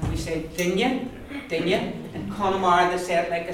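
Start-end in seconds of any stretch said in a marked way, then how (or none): 0.6-1.9 dinne with a palatal nn, like "din-ye"; double slender n. Shown as a demonstration. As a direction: slide the nn into a y sound in dinne. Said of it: "double slender end".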